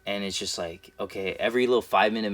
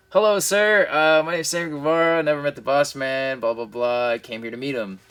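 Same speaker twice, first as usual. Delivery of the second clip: put-on high, eager, polite young fan; nervous polite voice; 4 semitones higher than usual. Nervous extra greets the boss in a high voice. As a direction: pitch it up like a nervous kid meeting the boss. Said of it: "do the same thing".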